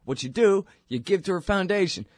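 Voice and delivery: high mock Russian accent; pretend Russian accent. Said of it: "my Russian pretend accent".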